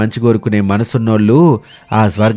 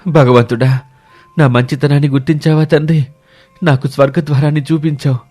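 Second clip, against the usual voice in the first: higher-pitched thanks to God; raised, reverent villager's voice; grateful prayer; 3 semitones higher than usual. Acted. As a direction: address God in awed gratitude. Villager thanks God on seeing gate.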